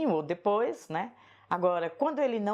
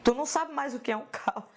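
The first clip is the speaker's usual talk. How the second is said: imitating father's scolding; 7 semitones higher than usual. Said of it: "e disse".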